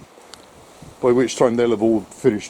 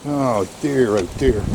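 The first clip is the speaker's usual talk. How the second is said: out of breath; slower than usual. Real, not acted. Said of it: "I'm out of breath".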